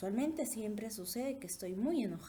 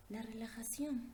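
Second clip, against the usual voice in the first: whisper; 3 semitones higher than usual. Shown as a demonstration. Teacher demonstrating calm.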